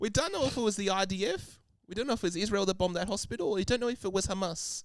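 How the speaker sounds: clumsy put-on New Zealand accent. Attempting a New Zealander accent while another speaker mocks it, bad New Zealand accent. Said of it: "I can't do a New Zealander accent".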